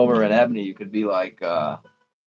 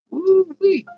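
pained yelp; 6 dB louder than usual. Real, not acted. Hands burning from salted bait.

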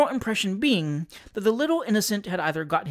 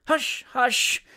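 urgent hushing; 8 semitones higher than usual. A narrator's reading. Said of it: "interrupted Mister Percy Noakes".

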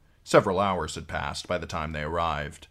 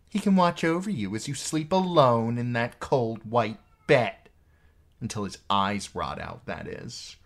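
higher, louder goading queen; taunting Cersei; 5 semitones higher, 4 dB louder than usual. A narrator's reading. Sister taunting her brother about sleeping alone, goading. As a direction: drive the taunt home, pitched up.

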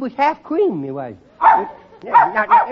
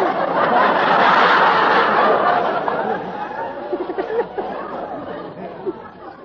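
put-on kid giggle; 5 semitones higher than usual.

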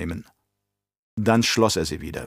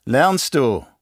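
raised, theatrical voice of a scheming baron; menacing Baron; 3 semitones higher, 3 dB louder than usual. Acted. Baron scolding his nephew, theatrical and sly. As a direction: play the Baron, condescending and sly.

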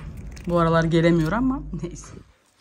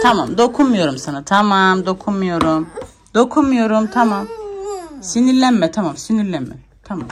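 calming; 4 dB louder than usual. Real, not acted. Calming crying baby.

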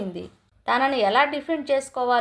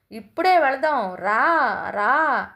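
put-on a boy's louder demanding cry; child yelling; 4 dB louder, slower than usual. A narrator's reading. Grandson yells at grandma to go now, loud demanding cry. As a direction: shout it like a stubborn child. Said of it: "అని గట్టిగా అరుస్తున్నాడు".

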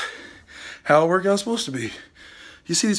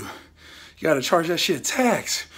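slow drawn-out; much slower than usual. Real, not acted. Slow punchline.

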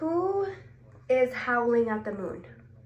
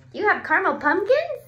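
mock disgust; 6 semitones higher, 6 dB louder, faster than usual. Mock disgust at silly page.

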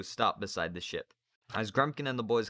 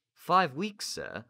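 put-on shocked boy; 7 semitones higher, 6 dB louder, much slower than usual. Narrator voices Peter.

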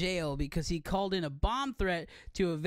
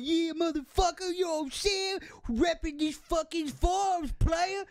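black goat voice; 9 semitones higher, slower than usual. Retold or imitated. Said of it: "I'd be like".

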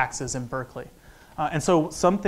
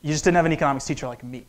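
fast, cocky comeback; to a stranger who hated economics, smug and quick; smartass retort; faster than usual. Retold or imitated. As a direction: rattle it off with a smug edge. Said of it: "my smartass response is".

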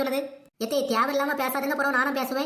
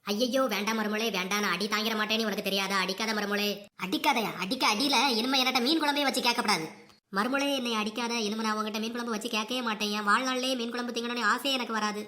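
pleading mother-in-law; 4 semitones lower than usual. Acted. Mother-in-law begs her daughter-in-law not to hit her, pleading. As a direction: beg for mercy, cowering.

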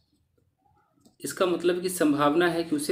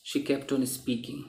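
drawn out, stress on kept; slow model sentence; 7 dB quieter, much slower than usual. Shown as a demonstration. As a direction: read it slowly, leaning on "kept". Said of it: "तो keep का second form केप्ट". ("kept" पर ज़ोर देकर धीमे से)

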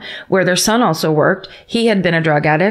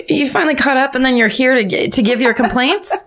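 mock offence; 6 semitones higher than usual. Mock offence at listener's email.

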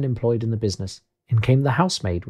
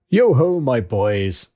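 jovial boss's hearty call; Fezziwig; 4 dB louder, much slower than usual. Acted. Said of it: "said Fezziwig".

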